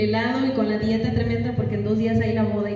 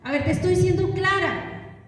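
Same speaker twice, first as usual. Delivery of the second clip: put-on higher, sharp denial to the child; defensive snap at child; 7 semitones higher than usual. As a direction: insist you're just being clear. Parent answering child sharply.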